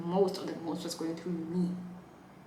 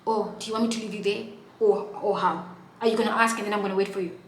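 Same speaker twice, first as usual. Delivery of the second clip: aggressive retort; 2 semitones higher, 6 dB louder, faster than usual. Retold or imitated. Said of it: "he's like".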